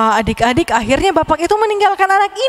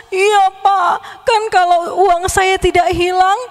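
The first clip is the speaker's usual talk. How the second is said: a child's mock wail, higher; wailing greedy child; 4 semitones higher than usual. Greedy child whines at the old man, mock wailing. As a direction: whine for more money, half crying.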